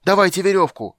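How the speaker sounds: high, loud frantic demand; urgent high-pitched yell. A narrator's reading. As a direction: bellow for help in a panic. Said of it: "орал Лютик".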